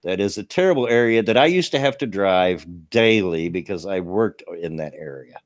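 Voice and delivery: reading a news item aloud. Acted. Streamer reading a local crash story to chat, news read. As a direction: read the report straight through, newsy.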